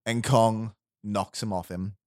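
normal talking voice

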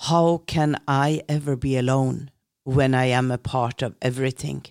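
a hint of a trembling old man, calm and solemn; lightly voiced spirit guide answering; old man's voice. Spirit guide answering Eilo's question, a lightly trembling old voice. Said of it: "Og så svarer da Wounded Eagle".

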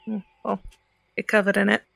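light soft Cockney scolding; a dry Cockney put-down, lightly done. Acted. Ceridwen scolding the prisoner, soft Cockney. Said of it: "A soft Cockney accent".

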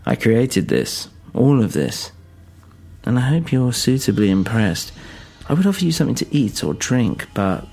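lightly voiced old eccentric, swooping pitch; a hint of theatrical old skeleton; old skeleton host.

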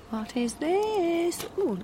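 curious and delighted; delighted surprise. Real, not acted. Lifting the lid on pudding.

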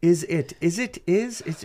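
mock-questioning, high "Is it?"; mocking imitation. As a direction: parrot "Is it?" in rising exasperation. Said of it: "he'll, he'll go".

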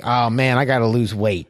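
lightly voiced low uncle; a touch of a deep-voiced uncle. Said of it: "like, ten times deeper than mine".

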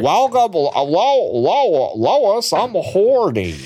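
a hint of Peter Griffin talking to his wife; lightly voiced cartoon dad, slow at the end; Peter Griffin impression. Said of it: "talking to Missus Family Guy like that".

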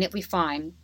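murmured it'll be fine to calm yourself; quiet self-reassurance. Retold or imitated. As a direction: say it'll be fine again under your breath. Reassuring herself before hospital.

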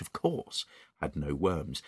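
ordinary delivery

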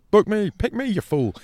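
high, loud mock plea; mock pleading. Pleading mockingly to be booked on the show. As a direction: beg like a needy guest.

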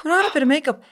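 whispered mockery. Mocking Mick.

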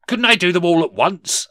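high, loud hopeful question; pleading Scrooge. Acted. Scrooge bargains with the ghost, high and pleading.

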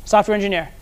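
SOFTWARE ENGINEER echoed back as if unsure; "Software engineer" said back questioningly. Retold or imitated. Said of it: "his voice sounded like a question".

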